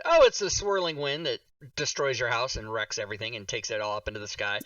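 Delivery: imitated aunt, casually explaining; matter-of-fact. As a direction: explain the danger as if it were nothing, pitch falling away. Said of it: "matter-of-factly said".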